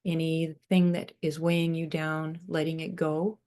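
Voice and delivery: unhurried meditation voice with long pauses; guided meditation. Real, not acted. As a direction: guide them gently into breathing, leaving space between phrases.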